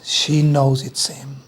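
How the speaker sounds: whisper, a little slow; quiet wonder, whispered; whispered realisation. Acted. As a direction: hush as she recognises him. Hushed realisation in story.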